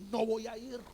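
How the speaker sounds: angry refusal. Retold or imitated. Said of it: "se enojó tanto que".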